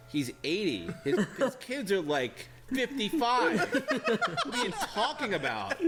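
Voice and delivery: laughing, slowed incredulous reply; laughing disbelief. Retold or imitated. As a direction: laugh through the retort. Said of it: "I'm like".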